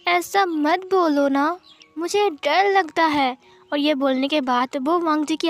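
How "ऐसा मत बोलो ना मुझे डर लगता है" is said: put-on slow, lightly high little boy; scared child voice. Wing begging Wang Ji not to talk of dying, slow child voice. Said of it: "उसने कहा".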